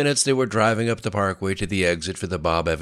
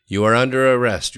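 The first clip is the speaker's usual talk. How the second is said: louder, higher official announcement; commanding arrest; 6 semitones higher, 7 dB louder than usual. A narrator's reading. Plainclothes cop arresting two women, commanding. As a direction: declare it firmly as an order.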